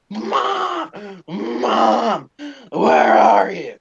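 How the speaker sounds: high mock yell for mom, fading down; retold screaming. Four-year-old calling for his mom in the dark, mock yell. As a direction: call out for mom like a scared little kid. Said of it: "so I started screaming".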